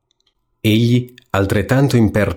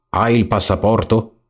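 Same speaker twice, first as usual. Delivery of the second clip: rat asking. Acted. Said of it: "domandò il ratto".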